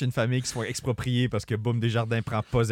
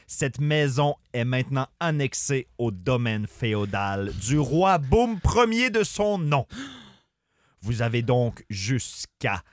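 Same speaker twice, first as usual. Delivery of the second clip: a hint of a pompous royal messenger; royal herald. Official reads annexation decree.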